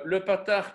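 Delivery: "patar" with a stretched first syllable, pa-tar; patar said slowly. Shown as a demonstration. Teacher naming the vowel, careful. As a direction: spell out "patar" for the class. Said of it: "comment est-ce qu'on écrit un patar".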